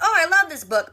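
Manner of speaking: playful excited outburst in a retelling; retold delight. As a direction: imitate someone delighted at a find. Retold delighted reaction to finding book.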